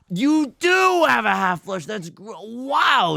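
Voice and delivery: high, loud amazed exclaim; surprised. Real, not acted. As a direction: caught off guard, impressed. Surprised at opponent's hand.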